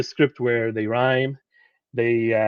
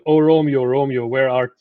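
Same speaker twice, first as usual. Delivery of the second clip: mock-declaim like a Romeo balcony speech; theatrical Shakespeare line; 4 dB louder than usual. A lecturer quoting Shakespeare with a hint of stage flair. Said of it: "like in Shakespeare, where he said".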